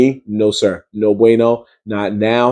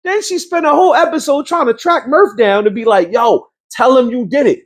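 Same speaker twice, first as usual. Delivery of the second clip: pitched-up storytelling rant; high animated recap; high excited rant; 9 semitones higher than usual. Real, not acted. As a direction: keep telling it way up high. Continuing high excited ranting.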